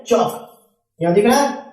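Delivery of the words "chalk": चौक with the L left out; silent L. Shown as a demonstration. Teacher reading chalk for students, silent L in चौक. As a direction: say चौक with no L before the final k. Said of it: "यहाँ पर देखिए एल silent है".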